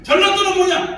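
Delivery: 전라도는 shouted high and loud; rhetorical shout. Real, not acted. Lecturer challenging the audience about Jeolla, loudly. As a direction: fire the question at the room.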